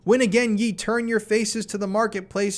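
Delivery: high, loud taunting bellow; effigy of care shouting at the crowd; mocking spirit shouting. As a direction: rail at them like a mocking spirit. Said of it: "A voice then shouts from the woods".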